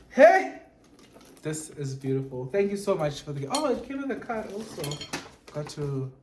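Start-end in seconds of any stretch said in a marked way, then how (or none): 0.1-0.6 high, loud happy exclamation; excited hey. Real, not acted. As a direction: call out with delight. Excited on opening the card.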